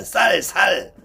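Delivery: "쌀" said with a tense ss, then "살" with a plain s, contrasting the two; Gyeongsang pronunciation. Shown as a demonstration. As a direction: say "쌀" tense, then "살" lax, the way Gyeongsang speakers blur them. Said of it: "경상도 사람 발음이 안 좋잖아". (경상도식 "쌀, 살" 발음 시범)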